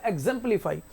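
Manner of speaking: एग्जाम्पलीफाई with a brief 'zem'; don't stretch the second syllable of एग्जाम्पलीफाई; एग्जाम्पलीफाई, short E in the middle; short vowel. Shown as a demonstration. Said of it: "इसको कम खींचेंगे".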